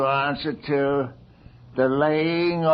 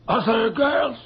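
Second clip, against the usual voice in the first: crying yet pressing on; sobbing out the horror; tearful accusation; 5 semitones higher than usual. Acted. Girl weeps as she accuses the Countess before the court.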